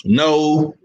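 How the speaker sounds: low drawn-out refusal in a borrowed voice; Act Richer. Acted. Co-host objecting to praise of Boo Boo, lightly mimicking. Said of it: "in my Act Richer voice".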